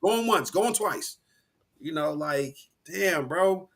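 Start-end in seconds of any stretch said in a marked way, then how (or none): 0.1-1.2 snake oil salesman. Retold or imitated. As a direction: push the special before it's gone. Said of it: "that's when he get to talking real fast".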